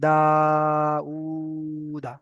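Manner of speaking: long দা, long উ, short final দা; stretched recitation. Shown as a demonstration. Teacher asking students to copy, stretched দা উ দা. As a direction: hold দা and উ, clip the last দা. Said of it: "আমার মতো করার চেষ্টা করেন".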